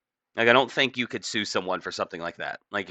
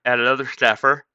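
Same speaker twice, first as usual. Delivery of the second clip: just woke up, croaky; sleepy morning croak; groggy voice; 3 semitones higher, 4 dB louder than usual. Real, not acted. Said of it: "I just woke up".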